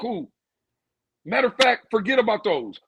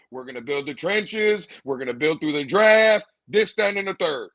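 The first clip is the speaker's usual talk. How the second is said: lower, imitating a GM's stock promise; a lightly voiced executive reciting the usual line; mock front-office voice; 6 semitones lower than usual. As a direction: put on a lower voice to mock the draft talk. Mocking the GM's draft promise.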